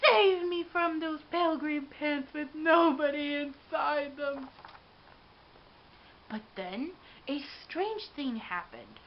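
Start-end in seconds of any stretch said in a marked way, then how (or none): 0.0-4.5 pleading cry. Acted. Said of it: "I cried".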